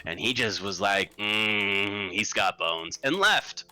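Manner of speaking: a harried relative at his wit's end; a hint of an exasperated nephew; worried relative.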